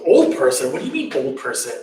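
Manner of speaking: retold puzzlement, quick on the follow-up; acted-out prince querying an unfamiliar term; baffled questioning. Sheltered prince asks Channa about the stranger, baffled.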